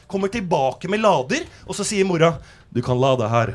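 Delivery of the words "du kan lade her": put-on Bosnian accent. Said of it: "sånn norsk, brokken, eh, bosnisk aksent".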